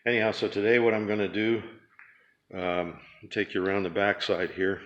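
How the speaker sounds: talking while chewing gum. Real, not acted. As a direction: chew gum as you talk. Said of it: "sorry, I'm chewing gum".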